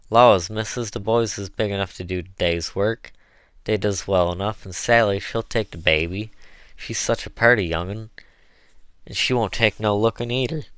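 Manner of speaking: Southern dialect, eager and chatty; a hint of an earnest old servant; lively dialect pitch to the mistress; lightly voiced Chloe, folksy cook.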